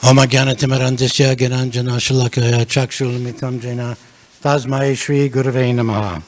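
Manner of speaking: muffled behind a face mask; speaking through a mask. Real, not acted. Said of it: "Can you hear me okay through the mask?".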